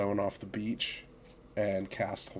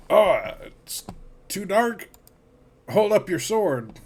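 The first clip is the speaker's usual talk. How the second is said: raised, higher-pitched in-character call; 10 semitones higher, 9 dB louder than usual. Acted. Shipmate wanting light from a sword, calling out. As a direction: call it out loudly through the dark. Character calls through the dark.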